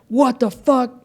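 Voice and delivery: high, exasperated mock outburst; pissed off. Retelling his money stress to a friend, an exasperated high outburst. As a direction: blurt it out, fed up with the bill. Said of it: "I used to get pissed".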